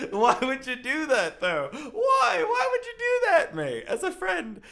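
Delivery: high, loud, half-laughing why; loud incredulous questioning; outraged disbelief. Real, not acted. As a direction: demand it in mock outrage.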